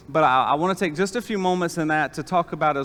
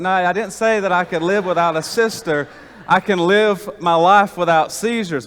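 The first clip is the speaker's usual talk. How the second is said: higher and louder, insisting each word; exasperated correction; 4 semitones higher, 6 dB louder than usual. Retold or imitated. Son correcting his crying sister on the phone, loud and insistent. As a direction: set the record straight, firmly.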